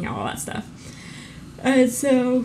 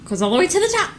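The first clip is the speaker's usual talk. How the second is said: conspiracy theorist voice; 11 semitones higher, 3 dB louder, faster than usual. Pretend. Repeating the conspiracy meme line.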